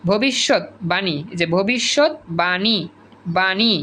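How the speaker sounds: slow ভবিষ্যৎবাণী, split before বাণী; correct pronunciation. Shown as a demonstration. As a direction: say ভবিষ্যৎবাণী slowly as bhobishot, bani. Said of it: "ভবিষ্যৎবাণী না কিন্তু".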